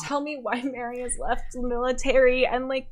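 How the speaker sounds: lightly voiced drunk compliment; tipsy girl gushing to a friend in the bathroom. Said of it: "This is girls drunk in the bathroom".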